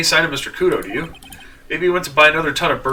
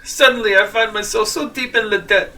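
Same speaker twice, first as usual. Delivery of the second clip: slightly higher, hammed-up French accent; terrible French accent; 4 semitones higher than usual. Debtor bemoans the bad world, in a put-on French accent. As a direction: lament in a mock French accent. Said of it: "In my terrible French accent".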